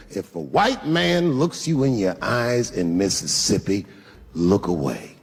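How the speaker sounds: slow, deliberate mother's warning; pointed warning. Retold or imitated. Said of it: "very pointedly, she said".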